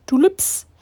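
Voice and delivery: high, loud burst of delight; thrilled discovery; excited exclamation. Real, not acted. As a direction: exclaim it with a sudden jump in pitch. Repeats it, delighted at the flowers.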